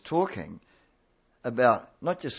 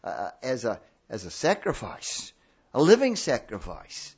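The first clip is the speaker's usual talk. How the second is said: pleading; 3 semitones higher than usual. Acted. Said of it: "he pleads with these Roman Christians".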